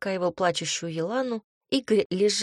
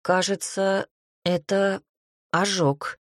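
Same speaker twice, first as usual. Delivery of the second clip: embarrassed; slower than usual. A narrator's reading. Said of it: "сконфуженно проговорил он".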